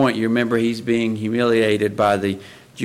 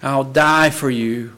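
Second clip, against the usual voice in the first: Peter's boast; 6 semitones higher, 6 dB louder than usual. Retold or imitated. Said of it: "the very one who said".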